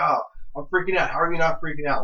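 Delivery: mildly excited retold freak-out. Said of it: "She, like, freaked out".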